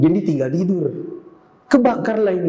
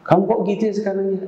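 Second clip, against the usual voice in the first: higher, fast exasperated father; 5 semitones higher, faster than usual. Acted. Father exasperated at his daughter, high and quick. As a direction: rattle off the complaint.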